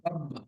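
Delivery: রব্বা with the ব held and said twice; doubled consonant. Shown as a demonstration. Teacher shows students the doubled ব in রব্বা. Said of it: "দুইবার আওয়াজ করে মিলিয়ে পড়তে হবে".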